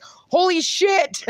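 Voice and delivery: high, drawn-out astonished exclamation; mock shock. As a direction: stretch it out in amused disbelief. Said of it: "And I'm like".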